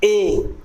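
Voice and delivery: ए as a half-close front vowel; vowel demo. Shown as a demonstration. Teacher showing students the ए vowel, clearly. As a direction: say ए clean and steady. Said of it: "यहाँ mouth half close है".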